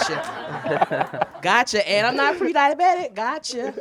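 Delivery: loud, high, laughing gotcha; sarcastic gotcha. Retold or imitated. Comic mocking people who call her fat, loud sarcasm.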